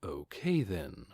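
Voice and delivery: soft, slow undertone; low and quiet, for himself; whispered. Acted. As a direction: murmur it under your breath. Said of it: "Ainz whispered".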